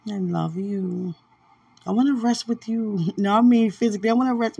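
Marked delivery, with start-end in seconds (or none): 3.2-4.6 laughing correction. Real, not acted. Laughing correction of double meaning.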